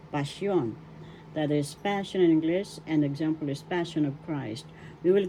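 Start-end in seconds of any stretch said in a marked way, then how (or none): 0.1-0.7 pasyon with the accent on YON; teacher's model of pasyon, stressed YON; stress on second syllable. Shown as a demonstration. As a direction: lean on yon at the end of pasyon. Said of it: "The accent is in the second syllable".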